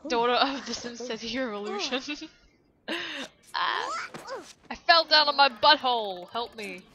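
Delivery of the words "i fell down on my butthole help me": mock wail. Voicing Sim who fell.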